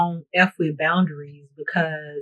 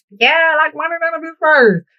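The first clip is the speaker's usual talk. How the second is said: high sassy; 9 semitones higher, 4 dB louder than usual. Pretend.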